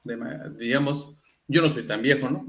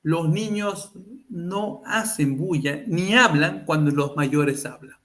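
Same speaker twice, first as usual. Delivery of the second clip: put-on stern old-school elder; slower than usual. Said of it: "tú le decías".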